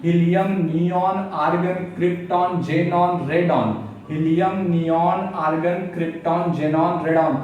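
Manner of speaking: chanting the element names in a list; rhythmic recital. Shown as a demonstration. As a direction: recite them like a memory drill.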